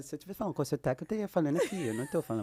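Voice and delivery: put-on French-accented Portuguese; playful demonstration of a French accent. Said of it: "Aí eu comecei a falar com sotaque com ela".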